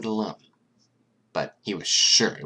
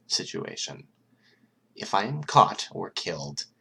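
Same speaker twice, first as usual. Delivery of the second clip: deadly serious. Acted. Mastermind threatens the heroes on tape, deadly serious. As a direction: let every word land like a threat. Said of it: "he turned deadly serious".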